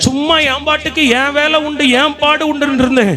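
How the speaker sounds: high, insistent sermon voice; impassioned preaching. Acted. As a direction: act out a believer's protest from the pulpit. Preaches a believer's complaint at full force.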